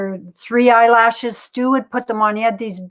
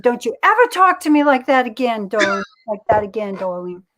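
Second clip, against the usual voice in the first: imitating Helen. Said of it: "She said".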